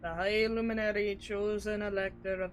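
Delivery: understated character voice, evenly paced; game character reading. Acted. Reads game dialogue in character.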